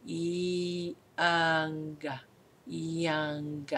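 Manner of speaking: hushed model of the word; soft modeled word. Shown as a demonstration. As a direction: model young quietly. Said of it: "the next word is young".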